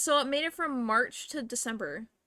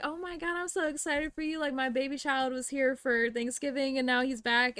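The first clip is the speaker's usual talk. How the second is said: excited nurse; 4 semitones higher than usual. Retold or imitated. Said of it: "And she was like".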